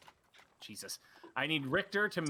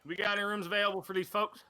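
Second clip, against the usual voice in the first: calling out; 5 semitones higher, 3 dB louder than usual. Acted. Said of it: "he turns back and goes".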